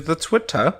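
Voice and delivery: accented, dropped r ending on Twitter; accidental accent. Real, not acted. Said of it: "why there was an accent on that".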